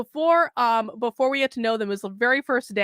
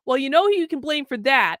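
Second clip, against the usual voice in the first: flat, dry deadpan delivery; 3 dB louder than usual. Retold or imitated. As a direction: say it totally straight-faced. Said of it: "like, totally deadpan".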